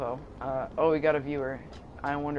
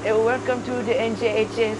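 high, loud flustered teacher voice; a frazzled teacher shrieking at the class; hammed-up high teacher voice; Miss Morelli impression; 8 semitones higher, 7 dB louder than usual. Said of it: "the Miss Morelli voice?".

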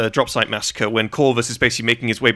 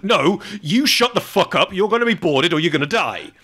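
mock angry; 7 semitones higher than usual. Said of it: "doubles down and is like".

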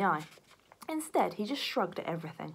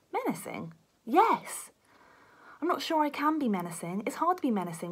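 higher, unsure worried detective; a meek, higher voice for a nervous detective; timid high voice; 7 semitones higher than usual. Acted. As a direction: sound nervous and doubtful. Timid detective Beef doubts himself.

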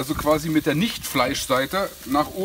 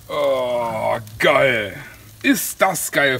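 excited exclamation; 4 semitones lower, 5 dB louder, much slower than usual. Real, not acted. Big reveal of finished dish.

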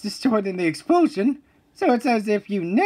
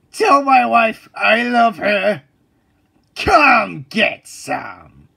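mock heroic; 3 semitones higher, 5 dB louder, much slower than usual. Heroic last words.

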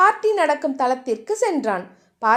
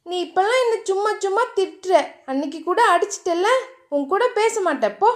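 lightly raised, pouting sulk; a hint of a girl refusing to talk to him; sulky young woman; 4 semitones higher than usual. Diya sulking at Theeran, lightly raised pouting voice.

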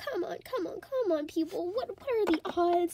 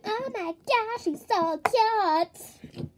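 gushing girl impression; 6 semitones higher, 5 dB louder, much slower than usual. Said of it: "Don't say it so loudly".

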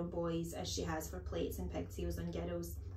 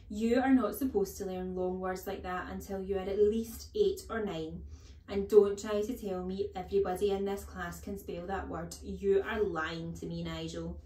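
louder, stern headmistress voice; bullying headmistress, accusing; 5 dB louder than usual. Acted. Headmistress accusing a pupil of lying, stern. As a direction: scold like a tyrannical headmistress.

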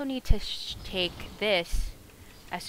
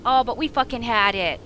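loud, pitched-up groan of defeat; frustrated yell; 5 semitones higher, 11 dB louder than usual. Real, not acted. Streamer yelling at a lost boss fight. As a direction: shout it out in real frustration.

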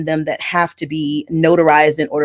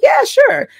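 much higher, bright mock agreement; imitating her own quick agreement; eager yes. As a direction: chirp it up high like an easy yes. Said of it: "So I was like".

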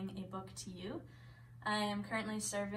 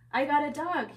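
loud, higher-pitched troll brag; boasting troll; 6 semitones higher, 11 dB louder than usual. A narrator's reading. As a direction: crow it proudly and loudly. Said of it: "he boasted".

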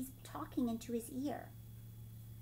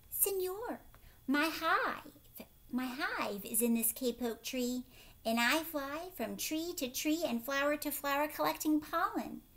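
lightly voiced little bee, raised and louder; pleading bee; 3 semitones higher, 3 dB louder than usual. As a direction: plead like a small busy bee. Reads the bee's plea.

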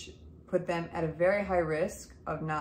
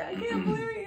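laughing disbelief; faster than usual. Retold or imitated. Mom overjoyed at triplets news.

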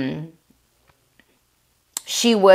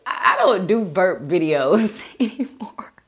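1 giggly whisper. Real, not acted. Laughs off burp video request.

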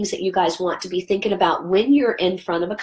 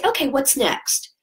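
upbeat question; 5 semitones higher, slower than usual. Shown as a demonstration. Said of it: "Always say".

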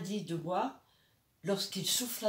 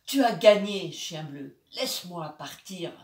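voix tremblante; 7 dB louder than usual. Acted. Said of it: "Sa voix tremblante supplia".

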